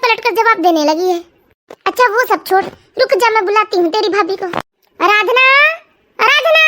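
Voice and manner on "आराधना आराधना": calling out. Acted. Mother calls daughter-in-law from afar.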